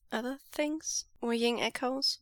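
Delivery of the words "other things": higher, hesitant echo; uneasy questioning; a touch of nervous doubt; tentative. Acted. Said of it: "voice suddenly tentative".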